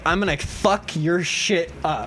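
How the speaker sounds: slow, low mock menace; low retold threat. Imitating a livid classmate turning around, low quiet threat. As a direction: drop it soft and slow, deliberately.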